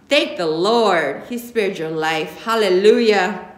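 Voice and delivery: slow, drawn-out churchy praise; dramatic praise. Acted. Grandma holding her face, praising the Lord. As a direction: lay the thanks on thick like a church lady.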